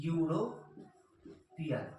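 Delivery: ইউরোপিয়ান drawn out very slowly, starting on a clear ইউ sound; slow pronunciation demo. Shown as a demonstration. Teacher to students, ইউরোপিয়ান spelled out very slowly. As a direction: stretch ইউরোপিয়ান out syllable by syllable. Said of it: "ইউ দিয়ে হতে পারে ইউরোপিয়ান".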